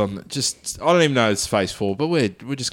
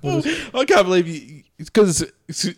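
laughing disbelief; 8 semitones higher, slower than usual. Real, not acted.

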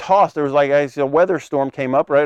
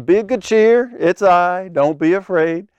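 raised voice calling out, easing down; mild mock yell; 4 semitones higher than usual. Preacher voices Jesus calling to frightened disciples, mild yell. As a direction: call across the water, without full volume. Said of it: "he yells out to them".

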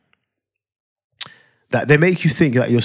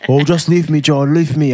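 annoyed; 4 semitones higher than usual. Retold or imitated. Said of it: "I'm like; why the fuck are you annoyed?".

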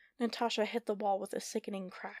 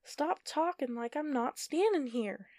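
raised, slow, furious; scream; 5 semitones higher, 4 dB louder, slower than usual. Acted. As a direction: snap at them both. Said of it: "Heather screamed".

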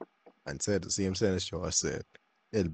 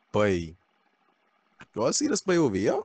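loud call across the room; 3 semitones higher, 6 dB louder than usual. Retold or imitated. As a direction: shout it at the boy over there. Calling out example sentence loudly.

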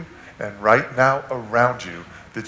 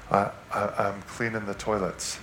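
sheepish; 2 semitones lower, 7 dB quieter than usual. Retold or imitated. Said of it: "sheepishly said".

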